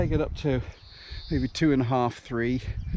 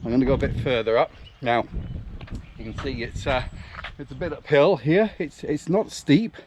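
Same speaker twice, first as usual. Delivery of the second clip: out of breath mid-run; puffing and panting while running; while jogging; 4 dB quieter than usual. Real, not acted. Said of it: "as you can hear, I am puffing and panting a bit".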